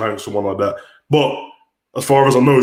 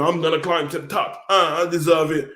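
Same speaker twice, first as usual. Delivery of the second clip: mock Liv Morgan; 5 semitones higher than usual. Mocking Liv Morgan crying when criticised, high and whiny. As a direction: pretend to be the teary wrestler. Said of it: "She starts doing".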